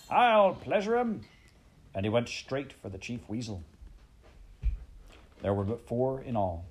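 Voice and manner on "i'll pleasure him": high, loud, drawn-out war whoop; furious yell. A narrator's reading. Toad going for the Chief Weasel, yelling. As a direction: bellow the threat at the top of your range. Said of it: "he yelled".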